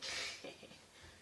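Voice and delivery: soft breathy mischievous snicker. Retold or imitated. Carpenter teasing his yelled-at coworker, imitated snicker. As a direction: snicker quietly before bursting into song.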